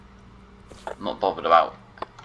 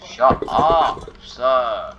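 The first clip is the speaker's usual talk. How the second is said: louder, higher snap of shut up; shouted retort; 4 semitones higher, 5 dB louder, much slower than usual. Real, not acted. Gamer shouting back at a game character, loud. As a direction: bark it at the character.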